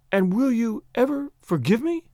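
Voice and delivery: put-on high, timid girl's plea; faint small voice. A narrator's reading. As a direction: ask it small and high, pleadingly. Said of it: "she asked in a faint, small voice".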